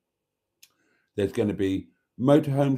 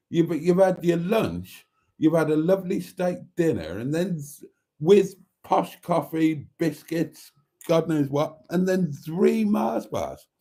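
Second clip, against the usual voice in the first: mock telling-off; 6 semitones higher than usual. Real, not acted. Scolding himself over snacks.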